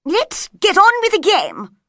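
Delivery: high, loud impatient command; queen hurries everyone back to croquet, angry. A narrator's reading. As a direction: snap at them like a cross queen. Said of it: "the queen said angrily".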